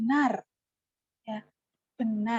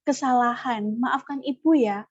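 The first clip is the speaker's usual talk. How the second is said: sincere apology. Shown as a demonstration. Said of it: "Itu yang perlu disampaikan".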